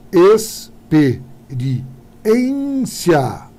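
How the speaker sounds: slow stress check on "experiência"; syllables drawn out. Shown as a demonstration. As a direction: drag out "experiência" to show the stress on "ri". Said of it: "minha paroxítona".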